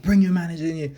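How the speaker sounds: mock a Karen demanding service; indignant high-pitched Karen impression; Karen demanding the manager. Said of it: "some Karen type thing".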